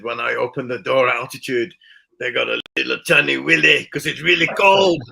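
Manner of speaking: teasing loadmaster. Retold or imitated. Loadmaster tells the narrator about his naked friends, lightly voiced teasing. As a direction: tease him about the cold. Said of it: "The European Loadmaster was amazing".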